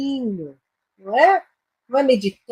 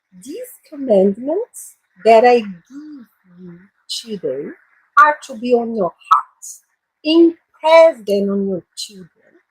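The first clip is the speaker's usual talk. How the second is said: slow, careful English Bible reading for learners; teacher reading a Bible verse aloud to her class, slowly; slow scripture reading; slower than usual. Shown as a demonstration. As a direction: read each phrase slowly so students follow.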